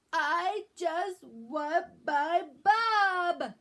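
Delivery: slow, high crying plea; crying wail. Acted. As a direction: wail it out tearfully. Sick child wails for mom.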